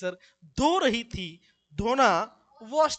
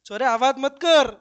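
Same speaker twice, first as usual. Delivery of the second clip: a man loudly shouting at others to stop making noise; mock shout; 2 semitones higher, 9 dB louder than usual. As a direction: bark a hushing order at the crowd. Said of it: "कहते हैं".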